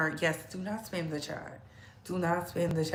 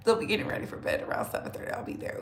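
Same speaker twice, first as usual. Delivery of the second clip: ordinary delivery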